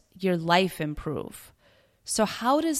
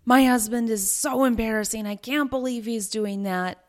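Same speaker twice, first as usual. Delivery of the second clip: Oh, my husband burst out high and loud, overplayed; mock embarrassed gossip; 3 semitones higher, 4 dB louder than usual. Complaining to girlfriend about husband, loud mock drama. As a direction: dramatize the shame like juicy gossip. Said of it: "rather than".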